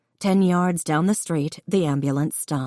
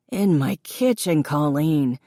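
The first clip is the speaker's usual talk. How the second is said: voice cracking. Acted. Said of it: "his voice cracking a little".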